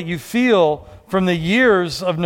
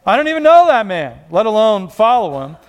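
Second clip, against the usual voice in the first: indignant denial; 4 dB louder than usual. Acted. Peter's denial acted out.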